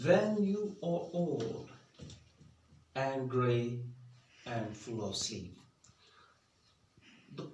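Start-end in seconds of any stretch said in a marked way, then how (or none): 0.0-5.6 drawn-out, raised opening line; slow poem reading. Shown as a demonstration. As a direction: read the line slowly, a touch lifted. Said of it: "and now we will read this poem".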